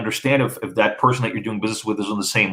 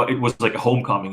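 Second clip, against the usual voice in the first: usual speaking voice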